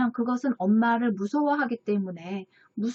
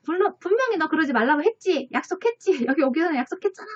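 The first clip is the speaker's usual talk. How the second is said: higher, nagging and fast toward the end; mock scolding mother; 5 semitones higher, faster than usual. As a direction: imitate an exasperated mom scolding her child. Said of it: "엄마가 막 화를 내면서 혼내죠".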